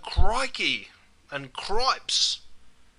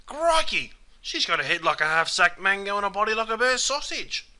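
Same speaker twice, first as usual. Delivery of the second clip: high startled start, easing into colourful remark; mock amazement at the sight of someone; pitched-up Aussie astonishment that settles down; surprised exclamation; 3 semitones higher than usual. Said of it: "it's used as an expression of surprise".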